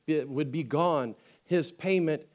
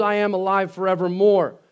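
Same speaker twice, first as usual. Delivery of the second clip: louder ringing declaration; proclaiming quote; 5 dB louder than usual. Acted. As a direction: announce it triumphantly. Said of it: "He says".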